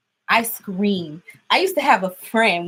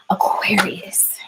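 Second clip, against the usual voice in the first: whispered; much slower than usual. Real, not acted. Asks the spirit for a message.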